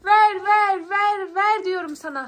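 loud, hammered repeated command; insistent demand. Acted. Girl demands her candy from little Ayşe Reva, loud insistence. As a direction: demand it back word by word.

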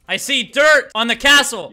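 loud hammed-up outrage; king yelling about dirt on the castle; mock outrage. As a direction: shout it like an offended king.

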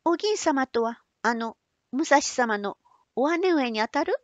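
put-on high, eager young woman. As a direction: ask brightly as a young girl. Otsu asks eagerly.

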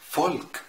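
فولك begun with a soundless-voice F. Shown as a demonstration. Teacher showing German V, plain F opening فولك. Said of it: "هنطقه ف".

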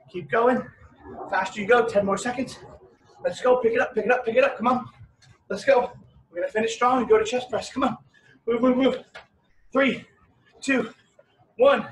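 loud, driving coach calls; barking gym coach. Real, not acted. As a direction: push them to the finish, loud. Workout coach pushing class hard.

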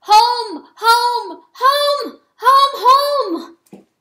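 high, loud rallying cry; calling retreat. Acted. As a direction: call the animals home from far off. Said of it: "cry retreat to his animals".

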